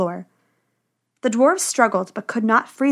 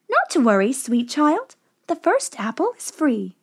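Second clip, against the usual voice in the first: put-on old woman; 4 semitones higher than usual. A narrator's reading. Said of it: "the woman said".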